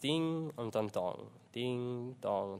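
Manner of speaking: slow, drawn-out ding and dong; imitated bell tolling. Preacher illustrates the swinging church bell, imitating its slow toll. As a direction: let each bell stroke ring out slowly. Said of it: "schwingt die Glocke weiter".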